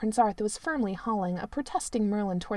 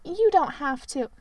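mock selfless; 6 semitones higher, 4 dB louder than usual. A narrator's reading. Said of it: "in a selfless tone".

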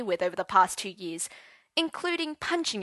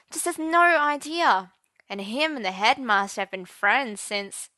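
gossipy prattle; 3 semitones higher, 4 dB louder than usual. Acted. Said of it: "She carried on prattling".

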